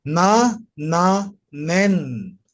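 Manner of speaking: Na, na, nen spelled out slowly; teacher sounding na, nen; reading demo. Shown as a demonstration. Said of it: "can you repeat the reading again".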